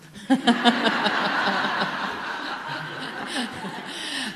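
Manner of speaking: a real, open laugh; hearty laugh. Real, not acted. Laughing at own answer.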